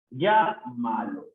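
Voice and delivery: "Llámalo" slow, pausing after "Llá"; broken after first syllable. Shown as a demonstration. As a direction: hit "Llá", pause, then finish "Llámalo". Teacher breaks word up. (marcando la primera sílaba, despacio)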